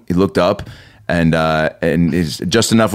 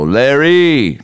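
overeager greeting; 4 semitones higher than usual. Retold or imitated. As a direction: call his name with way too much energy. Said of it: "just way too much energy".

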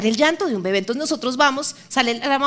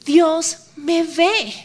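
slow emphatic; 4 semitones higher, much slower than usual. Shown as a demonstration. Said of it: "puedas decir como Agar".

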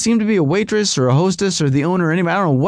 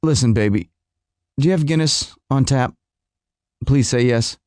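lower pleading voice; 5 semitones lower than usual. Retold or imitated. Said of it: "that I go".

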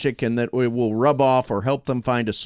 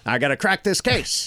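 thirties detective voice; 3 semitones higher than usual. Acted. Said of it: "He's a detective".

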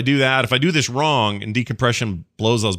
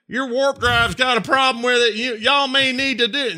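mock Southern space trucker; hillbilly space trucker; 13 semitones higher than usual. Imitating a grimy space hillbilly, hammed-up Southern accent. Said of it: "you're all like".

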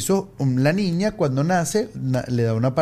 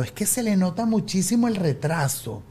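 lightly imitated lady, higher pitched; tactless lady; 4 semitones higher than usual. Lady going on about the delay, lightly imitated. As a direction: mimic her offhand remark. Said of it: "me siguió diciendo".

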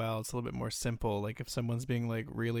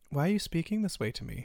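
quick, higher-pitched composed question; politely puzzled reproach; professional, polite; 5 semitones higher, faster than usual. Acted. Answering someone rude after a pause, politely reproachful. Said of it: "professional, polite".

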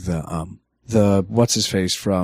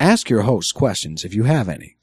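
automated-announcer style guideline read; measured announcer delivery with swooping emphasis. Shown as a demonstration. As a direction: read the rules like an official recorded announcement. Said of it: "I'm using my announcer voice".

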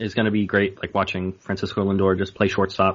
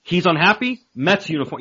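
mock fan hype; 8 semitones higher, 4 dB louder than usual. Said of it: "I'm gonna be like".

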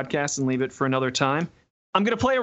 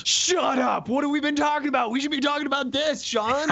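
surprised; 11 semitones higher than usual. Real, not acted. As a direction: blurt out in shocked delight. Surprised by host's podcast listening.

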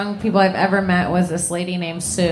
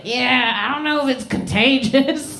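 offhand confession; 4 semitones higher than usual. Retold or imitated. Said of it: "she's like".

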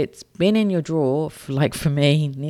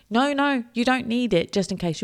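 high, insistent no no; emphatic no; 9 semitones higher than usual. Acted. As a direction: firmly wave the excuse away. Rejecting the just-in-case excuse.

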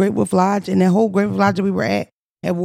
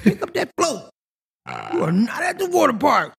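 mock calling out; 3 semitones higher than usual. Host hollers at kids playing in flood water, mock scolding call.

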